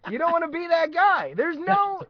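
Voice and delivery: high, loud hammed-up warning; mock tirade. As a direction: shout it like an over-the-top sales boss. Re-acting the sales monologue, now shouting.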